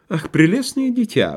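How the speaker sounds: high, sugary cooing. A narrator's reading. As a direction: coo it like a theatrical flirt. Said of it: "проворковала мисс Ирма". (воркующе, кокетливо)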